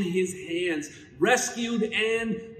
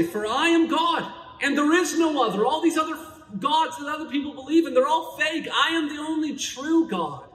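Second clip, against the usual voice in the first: voice of God; 6 semitones higher than usual. Pretend. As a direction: proclaim it like God himself thundering. Preacher voicing God, rising intensity.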